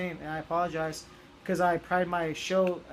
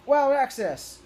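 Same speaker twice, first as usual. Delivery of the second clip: loud, high heroic battle cry; shouted transformation call; 7 semitones higher, 6 dB louder, slower than usual. Retold or imitated. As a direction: yell it like a Ranger morphing. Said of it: "and he goes".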